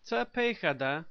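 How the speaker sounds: Tepejada with a hard k sound for the j; Tepejada, k-like consonant before the final -da; first pronunciation. Shown as a demonstration. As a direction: say Tepejada as te-pay-kha-da, not -sha-da. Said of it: "also pronounced".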